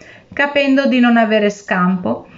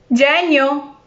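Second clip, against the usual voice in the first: sharply raised, called name; calling out; 6 semitones higher than usual. A narrator's reading. Fisherman calling to genie in jar, raised call. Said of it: "gridò".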